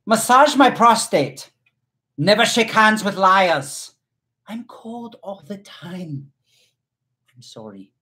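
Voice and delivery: slow, high put-on German accent. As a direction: read the haiku slowly in a mock German accent. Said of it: "that's your German accent".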